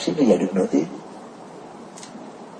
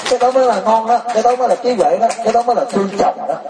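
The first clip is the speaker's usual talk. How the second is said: mock praise; 11 semitones higher than usual. Monk mocks wife's fake piety.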